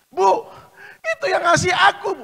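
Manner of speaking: loud, high, laughing; laughing reveal. Acted.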